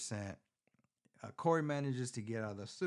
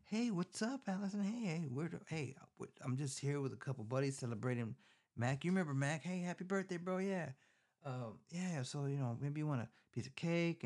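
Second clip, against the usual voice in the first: much higher mock-friendly bro voice; obnoxious sheriff; 5 semitones higher than usual. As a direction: lay on the fake cheer, pitched way up. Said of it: "guess who comes fucking".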